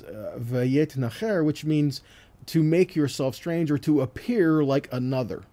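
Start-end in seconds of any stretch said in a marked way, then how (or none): 0.4-1.4 "vayet nacher" slowly in Hebrew, each syllable clear; Hebrew reading. Shown as a demonstration. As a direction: read "vayet nacher" slowly like the original text. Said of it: "literally how this reads is".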